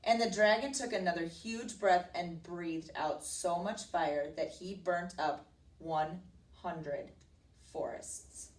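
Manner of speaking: slowing for dramatic effect; story narration. A narrator's reading. Teacher telling of the dragon's fire, narrating dramatically. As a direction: draw out the big number.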